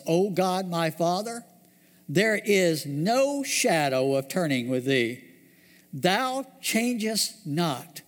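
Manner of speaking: slow, measured reading of hymn words; reverent hymn recitation. Acted. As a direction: savour each line like a prayer. Recites hymn lyrics slowly.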